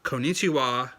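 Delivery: put-on lightly sing-song Valley Girl Konnichiwa; a hint of Valley Girl on Konnichiwa. Shown as a demonstration. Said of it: "don't do the Valley Girl kind of thing".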